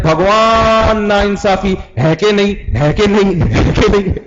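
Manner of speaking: high, slow braying whine; lightly hammed donkey voice; donkey bray imitation. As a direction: drag the words out like a braying donkey. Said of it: "ایسے آواز آتی ہے".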